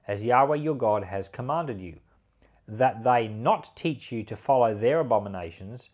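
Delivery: measured, formal Bible reading voice; steady, solemn reading of the law; scripture reading. Acted. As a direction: read the passage aloud like a lesson from the pulpit. Reads scripture before commenting.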